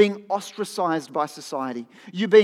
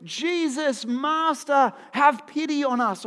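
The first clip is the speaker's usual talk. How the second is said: retold loud cry; 6 semitones higher, slower than usual. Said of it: "calling out with this loud voice".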